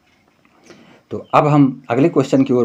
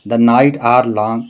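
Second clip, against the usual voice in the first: slow poem reading; much slower than usual. Shown as a demonstration. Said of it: "एक feet हो गया".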